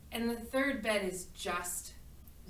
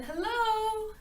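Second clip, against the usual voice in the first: higher, louder hello called into the house; calling out a second time, louder; 10 semitones higher, 4 dB louder than usual. A narrator's reading. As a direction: call out so someone inside hears. Calls again, peeking inside.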